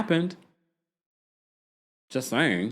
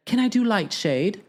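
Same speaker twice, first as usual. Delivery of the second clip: playful joke; 7 semitones higher than usual. Retold or imitated. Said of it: "she's like".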